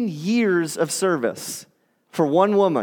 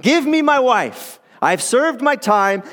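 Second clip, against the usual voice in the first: Jacob voiced higher, impatient; impatient demand; 5 semitones higher than usual. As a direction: demand your bride, higher and pushy. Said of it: "what Jacob just said to his father-in-law".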